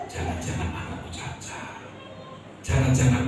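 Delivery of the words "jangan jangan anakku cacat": breathless whisper of dread; hushed, scared inner voice; fearful whisper. Retold or imitated. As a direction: whisper it like a frightened thought you dare not say.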